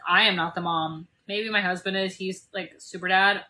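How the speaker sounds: normal talking voice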